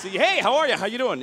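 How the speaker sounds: bright, chipper hello; my white guy voice. Shown as a demonstration. Comic showing his own voice to the audience, chipper greeting. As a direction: greet like a cheery suburban neighbor. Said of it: "Yeah, that's me".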